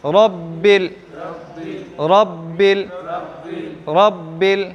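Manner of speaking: रब्बिल in two firm syllables, "rab-bil"; रब्बिल with a clean doubled "b"; correct rabbil. Shown as a demonstration. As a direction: recite रब्बिल with evenly closed lips on "bb". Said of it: "रब्बिल नहीं".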